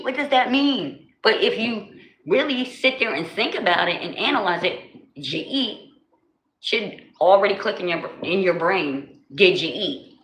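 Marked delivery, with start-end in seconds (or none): 0.0-1.1 slow, higher puzzled question; drawn-out baffled asking; exaggerated bewildered question; mock confused outsider. 9.3-10.2 laughing through the phrase; amused demo of the meaning. Shown as a demonstration.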